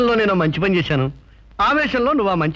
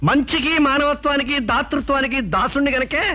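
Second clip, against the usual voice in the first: slow, solemn, weighing each virtue; slow pious speech; 3 semitones higher, slower than usual. Acted. Dasu to the wife, slow solemn self-praise. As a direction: lay the piety on thick, slowly.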